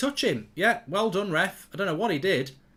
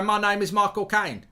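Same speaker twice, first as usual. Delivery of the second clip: rough Cockney film-star impression, pitched up; Michael Caine; 4 semitones higher, 3 dB louder than usual. Shown as a demonstration. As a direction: badly fake a famous Cockney actor. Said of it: "I can't do Michael Caine".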